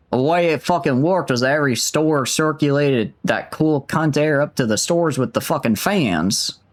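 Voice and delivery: Australian attempt drifting Southern; vaguely Southern accent. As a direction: aim for Australian, land in the American South. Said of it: "vaguely Southern, I think".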